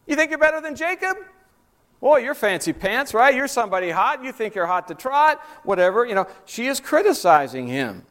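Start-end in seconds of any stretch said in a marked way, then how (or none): 0.1-6.0 high, fast, sneering sarcasm; mock him as a show-off; sarcastic woman. Woman mocking Jesus as a show-off, quick and sarcastic. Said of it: "That's what she's saying to him".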